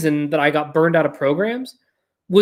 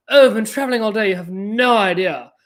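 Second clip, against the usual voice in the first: put-on joking British accent, quicker and higher at first; playful British accent; 4 semitones higher than usual. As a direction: play along in a mock-British voice. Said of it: "I thought we were doing a bit".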